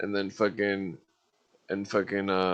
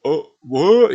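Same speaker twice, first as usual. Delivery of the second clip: higher, louder mock surprise; fake surprise; 8 semitones higher, 10 dB louder, much slower than usual. Friend told the story years later, loud mock surprise. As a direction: play dumb, loudly. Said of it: "he's like".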